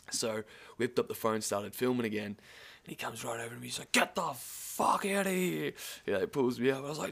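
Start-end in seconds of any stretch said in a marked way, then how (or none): 3.9-5.7 higher, slow, mock-stern order; mock guard. Security guard ordering him off the barrier, mock-stern. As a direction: bark it like a fed-up bouncer.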